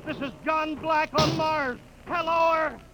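hopeless last transmission; fading despair. Acted. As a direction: let hope drain from the call. Radio plea fading hopeless.

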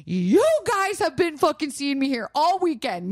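retold outburst. Retold appeal to security.

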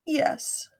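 softly whispered admission; whispered yes. Retold or imitated. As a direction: let the yes slip out barely voiced. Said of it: "And she said".

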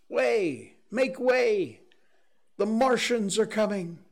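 high urgent shouting; crowd's shouted refrain. A narrator's reading. Refugees shouting to clear the road, loud urgent cry. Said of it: "through it all ran a refrain".

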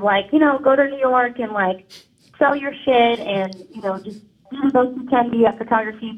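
caller on a phone line; phone-filtered voice; over the phone. Real, not acted. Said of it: "I'm on the phone right now".

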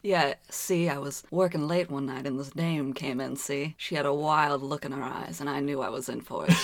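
a hint of a hardboiled forties gumshoe; lightly voiced old film noir narrator; noir detective. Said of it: "pretty spot on impre".

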